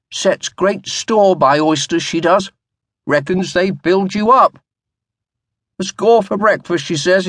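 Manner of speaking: a wispy-haired butler fretting over the oysters; worried old butler, gently reproachful; fussy old butler. A narrator's reading. Narrator voices old butler Hanson.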